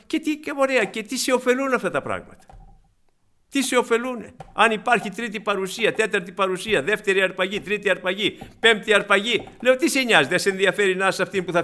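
high-pitched, insistent rhetorical challenge; exhorting preaching. Real, not acted. Preacher challenging believers over useless revelations, insistent. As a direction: press the congregation with each question. Preaches against idle speculation.

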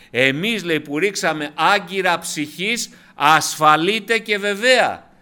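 loud, emphatic sermon delivery; forceful preaching. Real, not acted. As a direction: preach it to the whole congregation.

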